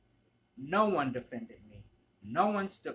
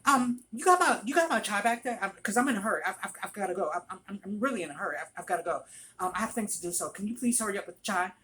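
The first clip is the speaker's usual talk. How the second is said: imitated pushy, hurried customer; higher, stammering impatient complaint; belligerent berating; 6 semitones higher, 5 dB louder, much faster than usual. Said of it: "she's belligerent, just berating".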